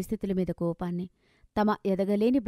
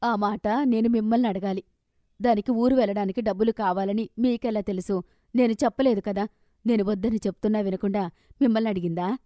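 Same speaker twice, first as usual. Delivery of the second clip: a little raised, quicker toward the end; voice slightly raised; 3 dB louder than usual. Acted. Wife confronting husband over the money, raised voice. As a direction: press him, voice rising in annoyance. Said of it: "కాస్త గొంతు పెంచి అడిగింది".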